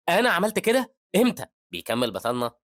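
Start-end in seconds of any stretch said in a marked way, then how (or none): 0.1-1.5 high, loud incredulous questions; shocked. Acted. Man to the boy who says he started it, shocked. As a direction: ask it in shocked disbelief. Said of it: "يتصدم الراجل وبيقول".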